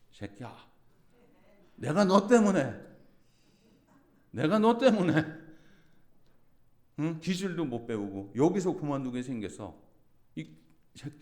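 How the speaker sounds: put-on shouted drunken cursing, high and loud; drunken angry yell. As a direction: hurl the insult like a drunk old worker. Drunk coworker cursing the preacher. (술 취한 노인의 고함)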